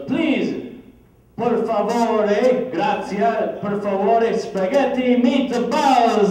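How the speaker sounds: high, loud pleading order, dragging out the end slowly. Retold or imitated. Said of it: "the louder he would yell it".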